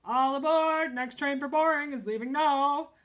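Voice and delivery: loud, high playful yell like a train conductor. A narrator's reading. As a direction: call it out like a conductor. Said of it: "yelled Bean".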